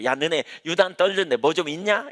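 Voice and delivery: lightly voiced sneer at the eager worshippers; a hint of a jeering bystander; mocking scoffer. Preacher voicing scoffers mocking fervent believers, mild sneer. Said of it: "이렇게 조롱한다는 거죠".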